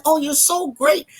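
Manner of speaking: imitating gushing parents, high-pitched; gushing praise. Parents praising their author daughter, retold as gushing. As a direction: lift the pitch high and fawn a little.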